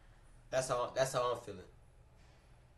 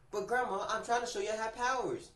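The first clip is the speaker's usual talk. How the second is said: put-on whiny kid pleading; 9 semitones higher than usual. Kid self pleading to grandma.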